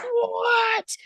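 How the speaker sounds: high, stretched disbelieving what; shocked what. Retold or imitated. Crowd member reacting to the surprise attack, stunned high what. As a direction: sound floored like the crowd.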